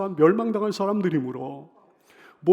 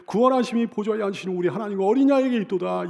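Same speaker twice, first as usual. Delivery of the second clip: higher, quick scripture proclamation; proclaimed cry; 4 semitones higher, 4 dB louder, faster than usual. Acted. Great multitude crying out before the throne, raised proclamation. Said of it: "큰 소리로 외쳐 이르되".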